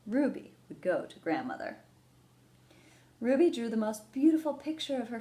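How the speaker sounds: put-on lively read-aloud to children; gentle storybook reading; story narration. A narrator's reading. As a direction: read it like a picture book to kids. Reads picture book aloud.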